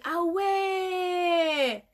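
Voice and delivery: high, long-drawn exclamation; exaggerated realization. Real, not acted. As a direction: cry it out, stretching the last word. Exclaims in reaction to a comment. (grande exclamation étirée, faussement étonnée)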